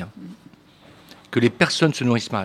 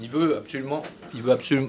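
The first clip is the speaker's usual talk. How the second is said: talking with a mouthful; words round a bite of food; mouth full; 5 dB quieter, faster than usual. Real, not acted. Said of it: "pardon, j'ai la bouche pleine".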